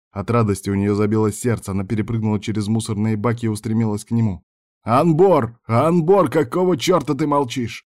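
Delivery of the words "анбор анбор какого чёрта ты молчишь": raised, exasperated shout; loud, high demand for a response; urgent angry calling. A narrator's reading. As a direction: call out hard to someone who won't answer. Frantic calls to silent driver.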